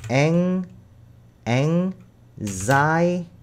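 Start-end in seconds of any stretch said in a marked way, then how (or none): 1.5-3.3 anxiety drawn out very slowly; slow model. Shown as a demonstration. Teacher models anxiety slowly for the class, drawn out. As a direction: stretch anxiety out syllable by syllable. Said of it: "발음이 anxiety".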